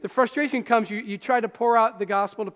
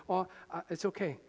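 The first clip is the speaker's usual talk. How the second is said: hushed, under the breath, much softer; whispered to yourself; 4 semitones lower, 9 dB quieter than usual. Shown as a demonstration. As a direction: murmur it privately so no one hears. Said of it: "you can just whisper it to yourself".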